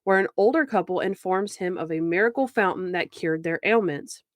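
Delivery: measured, evenly read episode summary; recap narration. Shown as a demonstration. Podcast host reading the episode recap to listeners, measured narration. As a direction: narrate the plot like a synopsis.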